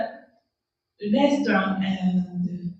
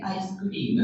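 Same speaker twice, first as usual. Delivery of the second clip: softer, flat Japanese-accented "ice cream"; Japanese English accent; 5 dB quieter than usual. Shown as a demonstration. Teacher showing what Japanese say, Japanese English accent. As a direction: say "ice cream" as aisu kurīmu. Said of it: "Japanese English is very flat".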